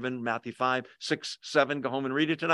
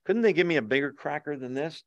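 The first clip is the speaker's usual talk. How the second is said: glib churchgoer; 3 semitones lower, 3 dB quieter, faster than usual. Retold or imitated. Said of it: "we just sort of glibly go".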